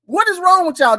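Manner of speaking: high, exasperated complaint; rising up in real annoyance; exasperated outburst. Real, not acted. To the hosts about his wife, exasperated.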